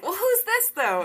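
put-on sing-song quizzing a toddler; high coaxing voice for a toddler; playful baby-talk questions.

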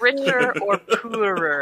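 slow Scottish wedding vow; Scottish accent. Retold or imitated. Recalling the preacher's wedding vow, Scottish accent. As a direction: draw it out in a Scottish burr. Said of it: "that's definitely Scottish".

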